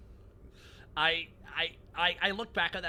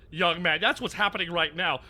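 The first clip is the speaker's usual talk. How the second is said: Bluster voice; 3 semitones higher, 7 dB louder than usual. Retold or imitated.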